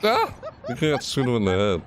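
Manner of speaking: high startled yell; blurting out at the screen; excited shout. Real, not acted. Reacting to trailer shot.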